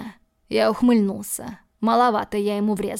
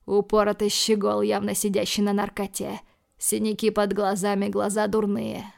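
ordinary delivery, nothing marked

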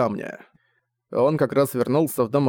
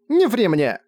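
angry shout; 8 semitones higher, slower than usual. A narrator's reading. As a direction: cut him off with a cry. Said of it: "вновь сорвалась на крик".

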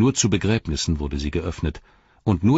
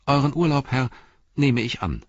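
a loyal hobbit refusing farewell; earnest hobbit Pippin; 8 semitones higher than usual. Acted. Pippin answers his lord.

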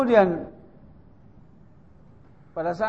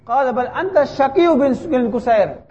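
higher, louder sneering repeat; mocking insult; 5 semitones higher, 3 dB louder than usual. Hajjaj repeating his insult at Sa'id, higher and louder. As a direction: throw the insult back harder.

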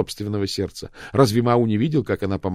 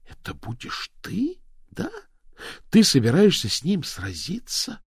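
stunned dismay; 11 semitones higher than usual. A narrator's reading. Daphne realizing, stunned.

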